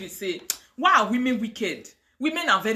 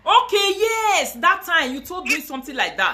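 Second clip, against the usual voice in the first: laughing; 5 semitones higher than usual. Real, not acted. Excited recall, laughing.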